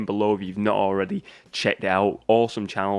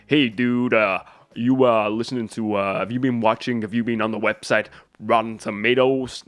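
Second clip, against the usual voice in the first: put-on Cockney accent. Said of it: "like, a Cockney accent then".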